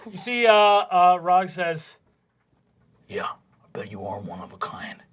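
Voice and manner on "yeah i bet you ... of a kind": whispered low taunt; a bully's low whispered jab; sneering whisper. Acted. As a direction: hiss the insult under the breath. Rog sneers at Fabian.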